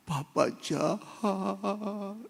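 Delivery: very slow whispered accusation; child's whisper. Retold or imitated. Sick boy whispers to his father on waking, slow. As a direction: breathe it out weakly, barely awake.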